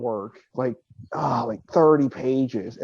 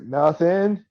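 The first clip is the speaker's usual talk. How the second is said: drawn-out, rising innocent denial; feigned innocence; 2 semitones higher than usual. Acted. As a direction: play dumb with a lilting upward tune. Playing innocent while searched by officers.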